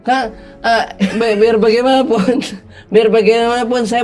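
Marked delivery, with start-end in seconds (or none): none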